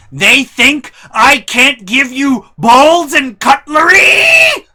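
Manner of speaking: high, loud, slow shrieking outrage; hammed-up furious mom. Mom calls the Banshee, furious. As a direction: wail it like an offended mom.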